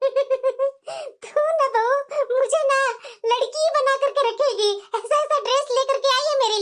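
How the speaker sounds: chuckling through the words with delight; laughing fondly. Acted. सास बहू के तोहफे पर खुश. (बहू को छेड़ते हुए हँसते हुए बोलना)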